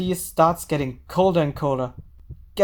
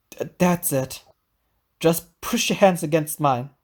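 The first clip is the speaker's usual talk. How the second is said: soothing. Acted. Tom soothes Senri.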